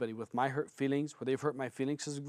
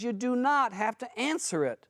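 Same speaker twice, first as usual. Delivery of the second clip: ordinary talk, nothing marked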